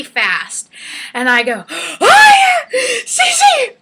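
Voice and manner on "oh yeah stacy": high, loud retold shriek for a friend; startled scream. Finding blood on the sheets, shrieking to her friend in alarm. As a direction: gasp and cry out in mock horror.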